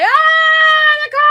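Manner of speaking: high, loud panicked yell; mock scream. Caller panicking at the wheel, mock scream. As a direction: imitate a caller screaming about the car. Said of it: "They're screaming, like".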